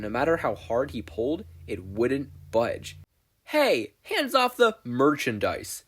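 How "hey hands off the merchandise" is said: high shouted warning, slow; shouting little salesman. Acted. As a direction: yell from inside the trash pile. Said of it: "shouted a voice".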